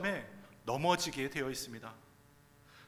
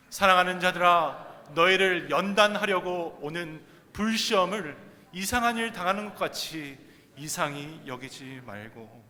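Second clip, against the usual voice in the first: scripture read-aloud; 7 dB louder than usual. Real, not acted. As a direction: lead a congregation reading aloud. Leads congregation reading scripture aloud together. (회중과 함께 성경 낭독)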